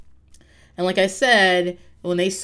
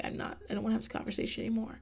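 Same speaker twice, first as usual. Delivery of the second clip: soft, hurried, much quieter retort; low voice; 2 semitones higher, 14 dB quieter, faster than usual. Retold or imitated. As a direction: murmur it fast, trying to end the talk. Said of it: "she says in a low voice".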